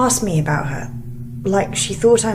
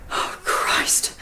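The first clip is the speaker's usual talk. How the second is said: startled gasp; 5 dB quieter than usual. Acted. Sudden shock at strange noise.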